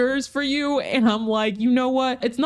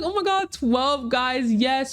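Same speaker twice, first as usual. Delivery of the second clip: excited squeal; 4 semitones higher, slower than usual. Retold or imitated. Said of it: "I'm like".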